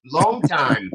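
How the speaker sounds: quoting Evil Rick in a mock Asian accent. Friend imitates Evil Rick in a mock Asian accent. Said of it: "Evil Rick says".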